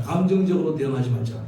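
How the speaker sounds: preacher's line for the congregation to repeat; 1 lead-in line. Shown as a demonstration. Pastor gives the church a line to repeat, firm and clear. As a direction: say it clearly so they can echo it. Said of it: "한번 따라하겠습니다".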